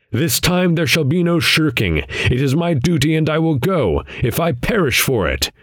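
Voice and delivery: high-pitched, resolute protest; defiant resolve. A narrator's reading. Defiant vow after crying out.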